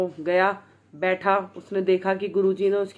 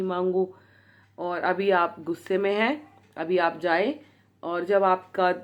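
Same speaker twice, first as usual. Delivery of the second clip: lovingly calm. Retold or imitated. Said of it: "मतलब, बहुत ही प्यार से, बहुत ही आराम से".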